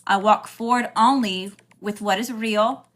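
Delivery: slow, with pauses between phrases; slow declaration. Shown as a demonstration. Host leading viewers in an alignment declaration, slow and deliberate. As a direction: say it slowly enough to be repeated along. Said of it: "I'm gonna say it slow".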